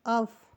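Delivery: अफ said short as "uff"; teaching pronunciation. Shown as a demonstration. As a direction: answer the quiz with a clear "अफ". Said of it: "क्या पढ़ते हैं?". (अफ को छोटा और साफ़ "अफ" बोलें)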